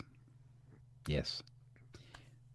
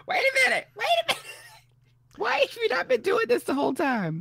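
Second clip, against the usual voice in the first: high, excited double take; suddenly delighted, wait a minute; surprised; faster than usual. Retold or imitated. Hearing the remix, she was shocked. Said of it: "I was like".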